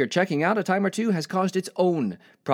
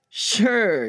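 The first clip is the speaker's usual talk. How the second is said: high, drawn-out agreement; put-on casual cheer; cheery reply; 7 semitones higher, 4 dB louder than usual. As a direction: answer a pal brightly, pitched up. Acted cheery reply to friend.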